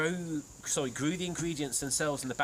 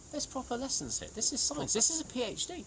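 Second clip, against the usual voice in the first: mock pompous; 11 semitones higher than usual. Mock boasting about science.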